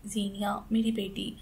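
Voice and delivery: breathless whispered cry for her daughter; anguished whisper. Acted. Mother whispering to her fallen daughter, anguished. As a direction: whisper her name in shock.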